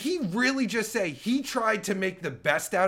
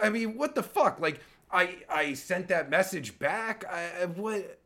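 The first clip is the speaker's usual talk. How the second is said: ordinary talk, nothing marked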